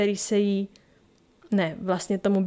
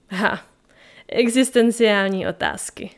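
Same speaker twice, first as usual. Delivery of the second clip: a touch of delight at the question; pleased; 3 dB louder than usual. Acted. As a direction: savour the topic, mildly amused. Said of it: "se znatelným potěšením v hlase". (s mírným potěšením v hlase)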